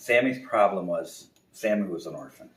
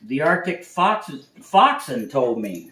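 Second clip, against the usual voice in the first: slow, higher, louder sheepish reply; timid bear; 7 semitones higher, 9 dB louder, slower than usual. Acted. Bear to the owl, slow sheepish reply. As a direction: answer like a cowed cub.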